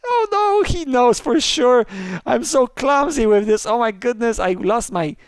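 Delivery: high, squealing in-game panic; frantic high-pitched gamer shriek; playful panic. Pretend. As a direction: squeal loudly in mock desperation, easing off toward the end. Panicked play in a murder game.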